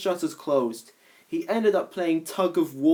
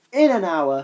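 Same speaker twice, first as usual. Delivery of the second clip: loud call out the window; calling out, louder; 3 semitones higher, 4 dB louder than usual. Acted. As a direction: shout it across the street. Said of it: "he called out".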